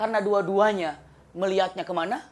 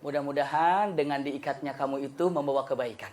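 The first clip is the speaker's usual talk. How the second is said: mocking king; 6 semitones lower, 6 dB quieter than usual. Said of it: "rajanya menghina".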